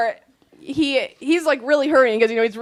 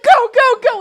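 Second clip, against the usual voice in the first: high, loud mock panic; urgent yell; 11 semitones higher, 8 dB louder than usual. Imitating friend rushing everyone into the car, urgent. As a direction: fire it off as an urgent order.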